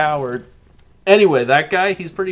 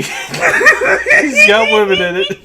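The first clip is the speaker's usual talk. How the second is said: loud, high, slow words breaking into laughter; mock your own line while cracking up; laughing self-mockery; 13 semitones higher, 8 dB louder, much slower than usual. Podcaster imitating his own clumsy joke, helpless with laughter.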